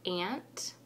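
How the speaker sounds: "Aunt" said as "ant"; "Aunt" with a short flat a, like ant; reading aunt. Shown as a demonstration. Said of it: "I will get started".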